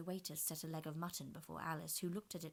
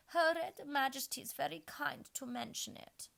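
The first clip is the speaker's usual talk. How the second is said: a hint of a gentle queen; murmured; 9 semitones higher, 7 dB louder than usual. A narrator's reading. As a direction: murmur politely. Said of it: "murmured into Alice's other ear".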